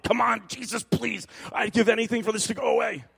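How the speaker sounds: mock begging while scrubbing; pleading prayer.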